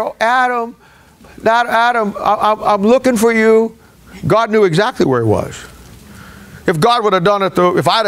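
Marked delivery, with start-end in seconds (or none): 0.0-3.8 higher, teasing hide-and-seek call; mock seeking God. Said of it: "we like to pretend that God is walking".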